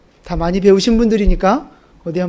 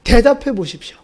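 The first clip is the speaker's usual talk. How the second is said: demanding protest; 5 semitones higher than usual. Retold or imitated. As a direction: call out to God, demanding an answer. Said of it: "하나님 앞에 따져요". (욥이 하나님께 따지듯 큰 소리로 항의하며)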